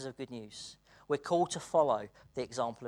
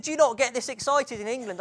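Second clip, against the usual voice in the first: incredulous friend; 9 semitones higher, 8 dB louder than usual. Retold or imitated. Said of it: "He said".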